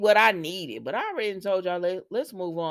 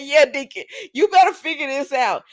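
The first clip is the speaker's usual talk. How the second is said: mock scolding; 8 semitones higher, 10 dB louder than usual. Telling off a soap character.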